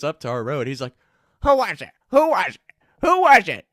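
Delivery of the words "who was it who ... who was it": high, loud, rising repeated shout; angry demand. Retold or imitated. Dean of discipline shouting at the row, louder each time.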